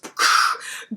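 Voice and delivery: whooshed lights-out sound effect; imitated power-down noise. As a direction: make a breathy whoosh for lights cutting out. Imitates lights going out mid-story.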